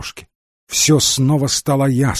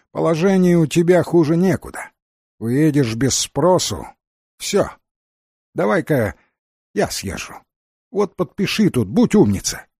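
lightly voiced Fairy, mostly pitched up; слегка озвученная Фея; 5 semitones higher than usual. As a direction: coax as the Fairy, lightly acted. (Фея уговаривает, голос чуть игровой)

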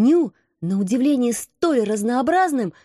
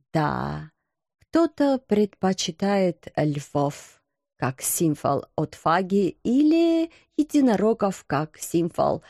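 low, understated knight's voice; mildly melancholy knight, obliging; doleful timid knight; 3 semitones lower than usual. Acted. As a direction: explain the family crest in a lowered, diffident voice.

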